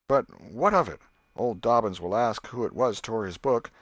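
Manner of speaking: put-on boy voice. Tom's voice in story.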